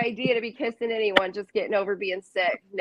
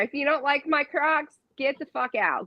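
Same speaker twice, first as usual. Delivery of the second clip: playful sassy dismissal; mock-stern, then shrill and fast; mock ultimatum; 6 semitones higher, 4 dB louder than usual.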